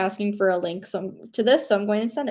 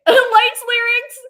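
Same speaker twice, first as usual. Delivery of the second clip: high, louder mock crowd scream; mock fan scream; 12 semitones higher, 10 dB louder, much slower than usual. Telling viewers about concert videos, mock screaming. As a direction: imitate fans screaming along, held back. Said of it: "videos of people screaming".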